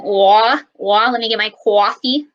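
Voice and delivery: put-on a light Boston accent with a drawn-out "wah"; mock Boston drawl as if ordering coffee; lightly imitated Boston accent. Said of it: "up in Boston".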